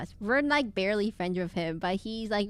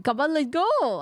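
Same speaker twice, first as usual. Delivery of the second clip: louder, higher, badly faked French accent; attempted French accent; 5 semitones higher, 4 dB louder, slower than usual. Game player voicing a French character, badly faked French accent. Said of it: "Oh wait, she's French".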